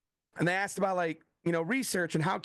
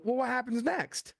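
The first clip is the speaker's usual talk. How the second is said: retold eager question, pitched up; riveted listener; 7 semitones higher than usual. Riveted editor asking the author for more, eagerly. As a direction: lean in, hooked on the story.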